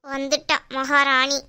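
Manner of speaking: slow, low sneer at a rival; low, slow sarcastic announcement; sarcastic scorn. Acted. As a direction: drag it out with mock deference. Aunt mocks arriving daughter-in-law.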